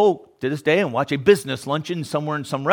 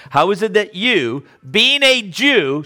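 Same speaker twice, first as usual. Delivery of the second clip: incredulous woman; 6 semitones higher, 4 dB louder, slower than usual. Retold or imitated. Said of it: "She says in verse nine".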